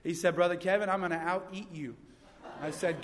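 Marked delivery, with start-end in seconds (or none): 0.3-2.0 lightly imitated African accent; softer, light take on an African accent. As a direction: boast with a hint of an African accent. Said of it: "he said in his African accent".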